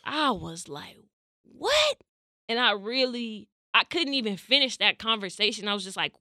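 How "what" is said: high, piercing shocked yelp; one stunned word, pitch soaring; shocked what. Retold or imitated. Girlfriend hearing boyfriend's reason, a high shocked yelp.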